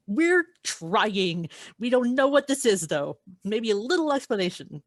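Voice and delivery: high, loud nervous pleading; panicked plea. Acted. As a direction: babble anxiously at the ghost.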